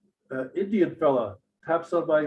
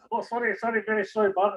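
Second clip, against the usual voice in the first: put-on apologetic drunk; 8 semitones higher than usual. Drunk intruder's acted apology.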